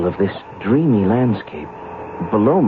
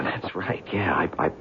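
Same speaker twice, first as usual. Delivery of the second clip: drops to a near whisper, trailing off; half to himself, losing the thread; hushed and unsure; 3 semitones lower, 8 dB quieter than usual. Acted. Reporter to the stranger, voice falling away to a whisper.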